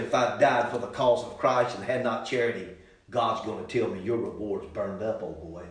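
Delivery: soft, sinking solemn aside; hushed quote. Acted. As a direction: drop it low like a grave confession. Quiet voicing of Paul.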